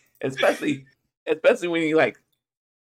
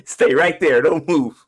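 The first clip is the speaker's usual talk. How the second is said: agent shouting orders; 5 dB louder, slower than usual. Pretend. Imitating FBI agents bursting in.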